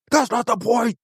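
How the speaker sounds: mock Aesop.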